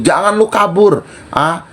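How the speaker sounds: cornering her with questions; retold confrontation. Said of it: "Gue bilang".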